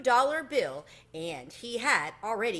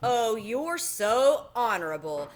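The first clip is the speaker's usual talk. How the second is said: sarcastic; 4 dB louder, slower than usual. Acted. Tucker mocks Chester.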